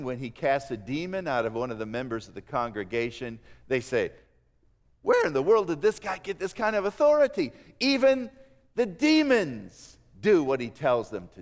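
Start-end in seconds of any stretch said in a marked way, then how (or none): 5.0-11.4 rising, astonished question with a lift on even; amazed crowd. Retold or imitated. Preacher voicing the congregation, amazed. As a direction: voice the crowd's wonder at the exorcism.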